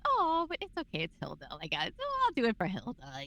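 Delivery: high, swooning mock fan voice; fan won over. Actress voicing a viewer charmed by Hilda, swooning. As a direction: gush like you'd forgive her anything. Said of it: "and you're like".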